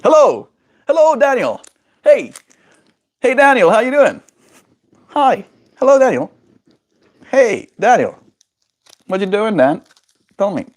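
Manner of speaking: jittery, very high sing-song greetings; too much caffeine. Real, not acted. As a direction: bounce off the walls greeting Daniel. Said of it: "I'm really caffeinated right now".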